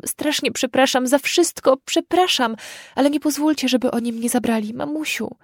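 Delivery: high, desperate, tearful begging; sobbing plea. Acted. Crying girl begs her parents to let her stay, high and tearful. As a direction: beg through tears, voice rising. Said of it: "Płakała tak strasznie".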